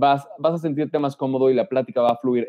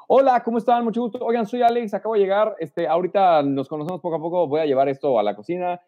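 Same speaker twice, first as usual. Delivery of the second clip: much higher, lively hello to the whole room; cheerful group greeting; 4 semitones higher than usual. Shown as a demonstration. Newcomer arriving at the party greets everyone together, high and lively. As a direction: breeze in and greet everyone at once. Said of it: "Es como".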